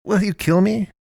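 high, strangled with fear; choked out. A narrator's reading. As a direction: force the words through a tight throat. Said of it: "Naomi choked out".

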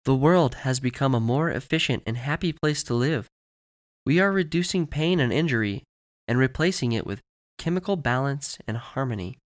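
lightly voiced, measured promo presenter; commercial spokeswoman. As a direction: deliver a polished corporate announcement.

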